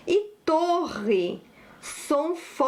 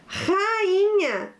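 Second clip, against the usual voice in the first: "Rainha" called out high and drawn out; slow dictation; 6 semitones higher than usual. Shown as a demonstration. Teacher gives pupils the next word, slow dictation. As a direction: lengthen "Rainha" on a raised pitch.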